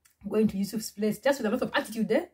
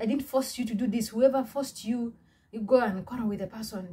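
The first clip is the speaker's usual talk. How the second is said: higher, heated, throwing her out; angry dismissal; 3 semitones higher than usual. Retold or imitated. Boss orders the customer never to return, heated and higher. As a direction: rant at her as she walks out. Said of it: "So I got up".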